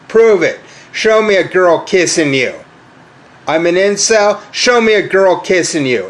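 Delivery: high, heated ranting shout at them; angry challenge. Acted. Ranting at internet critics, daring them, high angry shout. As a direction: yell the dare up high.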